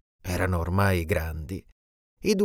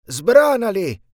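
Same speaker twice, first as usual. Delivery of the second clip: high, much louder single command; savage shout; 11 semitones higher, 7 dB louder, slower than usual. Acted. Evil genie screams at the lion to maul them, savage shout. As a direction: yell it like a monster unleashing a beast. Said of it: "il genio urlò al leone".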